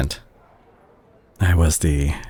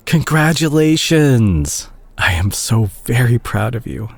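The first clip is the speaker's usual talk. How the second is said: high, drawn-out cheer of pride; delighted, slow, high congratulations; excited congratulations; 5 semitones higher, slower than usual. Acted. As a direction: burst out happy for them, stretching the word. Hears patient got the promotion.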